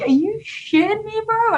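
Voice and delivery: very high, slow incredulous question; retold stunned disbelief. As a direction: squeak out the disbelief, drawn out. Retelling stunned reaction to movie offer.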